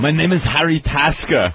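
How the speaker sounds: mock Austrian action-star voice; German accent. Action hero introducing himself, German accent. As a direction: give the name in a put-on German accent. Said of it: "With that awful German accent".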